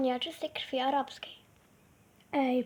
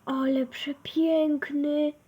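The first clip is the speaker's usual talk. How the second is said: delighted; 5 dB louder, slower than usual. Acted. Admiring a beautiful horse.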